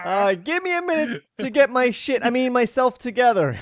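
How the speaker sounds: hammed-up high voice impression; mocking falsetto. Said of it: "Why do you sound like a, a disinterested hooker?".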